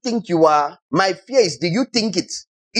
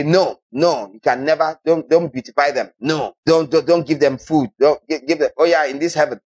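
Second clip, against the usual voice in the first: mock stingy God; 3 semitones lower than usual. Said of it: "Do you think God is going to say".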